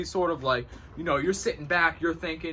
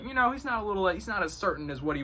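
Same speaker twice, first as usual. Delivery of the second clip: much higher doubting voice; imitated onlookers; 5 semitones higher, faster than usual. People telling on someone less certain, high mock commentary. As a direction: mimic people passing judgement.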